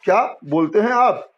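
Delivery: demonstrated surprise with a small break after क्या; taken aback, as if never heard before; mild astonishment. Shown as a demonstration. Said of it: "उसको आश्चर्य लग रहा है". (हल्का आश्चर्य भरा स्वर)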